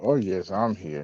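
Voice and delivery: slow, soft posh voice. Pretend. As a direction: put on a posh voice, softly. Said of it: "It's put on his posh voice".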